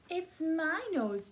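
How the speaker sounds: high, loud, drawn-out elephant call; trumpeting elephant. A narrator's reading. Elephant announcing its nose to young listeners, trumpeting. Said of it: "trumpeted the".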